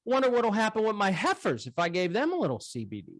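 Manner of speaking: high folksy farmer voice; dairy farmer. Retold or imitated. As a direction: lift the voice way up for the farmer. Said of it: "So this guy's".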